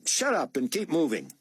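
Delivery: gruff fake anger; harsh order. A narrator's reading. Buck pushing the boy along, harsh. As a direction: keep up the act.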